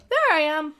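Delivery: hushed unvoiced whisper. Real, not acted. Whispering to himself on finding his own stream. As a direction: breathe the words with no voice.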